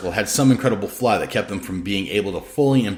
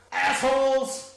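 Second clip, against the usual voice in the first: yelling insult; 4 dB quieter, much slower than usual. A narrator's reading. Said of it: "yelling behind her".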